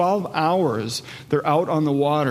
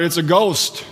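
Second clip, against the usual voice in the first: mild raised cry of alarm; slower than usual. Retold or imitated. Preacher quotes the frightened disciples, crying out mildly. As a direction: call it out in mock alarm, voice lifting. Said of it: "And they cried out".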